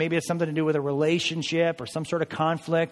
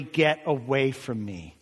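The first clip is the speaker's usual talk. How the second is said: slow, emphatic retold order; firm, drawn-out dismissal; emphatic command; 3 semitones lower, slower than usual. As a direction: send enemies away, word by word. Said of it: "With all the emphatic Hebrew".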